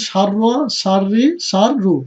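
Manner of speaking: slow "সার র, সার রি, সার রু" with the র doubled; model pronunciation. Shown as a demonstration. Teacher asks students to repeat, slow model pronunciation of "সার র, সার রি, সার রু". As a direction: say "সার র, সার রি, সার রু" slowly, split for repeating. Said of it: "আপনারা বলুন".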